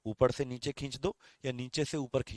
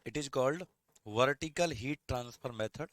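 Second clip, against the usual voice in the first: slow, spaced-out dictation; much slower than usual. Shown as a demonstration. Teacher dictating the definition to the class, slow and measured. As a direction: let each word land so they can write it.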